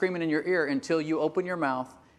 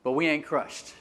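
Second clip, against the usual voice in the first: fervent apostle quote; 5 semitones higher than usual. Retold or imitated. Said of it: "He says".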